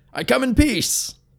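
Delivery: very high-pitched, calling out. Approaching a blockade after an arrow lands at his feet, calling out. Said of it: "he called".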